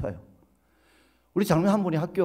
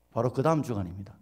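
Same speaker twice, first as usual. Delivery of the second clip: ordinary talk, nothing marked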